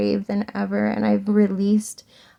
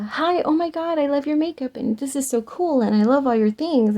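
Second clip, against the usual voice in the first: high, breathless fangirl gush; imitating a young fan squealing over makeup; gushing teen fan; 5 semitones higher than usual. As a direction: gush like a starstruck teenager.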